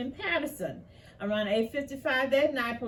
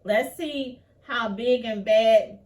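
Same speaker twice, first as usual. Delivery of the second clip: much louder, slow taunting challenge; angry taunt; 8 dB louder than usual. Real, not acted. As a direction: dare them, loud and slow. Taunting the officers.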